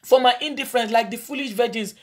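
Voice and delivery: intercessory prayer to the congregation; fervent prayer. Acted. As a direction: plead for forgiveness before God. Leads congregation in repentance prayer.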